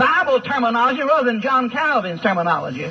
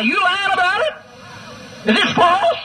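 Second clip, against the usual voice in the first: higher, incredulous challenge to a convert; mock challenge; 8 semitones higher than usual. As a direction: ask it with mock disbelief. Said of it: "I say".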